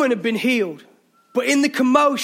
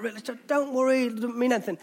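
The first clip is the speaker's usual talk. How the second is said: soft, calm wife reassuring him; calm reassurance; 7 dB quieter, faster than usual. Retold or imitated. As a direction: imitate the wife soothing him softly. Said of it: "really calm".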